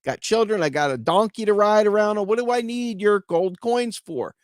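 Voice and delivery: lightly voiced peasant, puzzled; incredulous peasant. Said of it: "he says".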